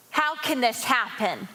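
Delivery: mild imitated yell, falling at the end; retold mother's yell. Mother confronting her pregnant daughter, a restrained retold yell. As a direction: demand it like an upset mother, not full volume. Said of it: "That's what my mother yelled at me".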